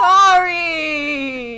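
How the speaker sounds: high, loud ghostly squeal. Pretend. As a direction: wail it like a ghost. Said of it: "your ghost voice could use some work".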